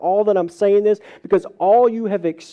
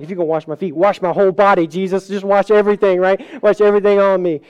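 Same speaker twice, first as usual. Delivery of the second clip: eager Peter; 5 dB louder, faster than usual. Retold or imitated.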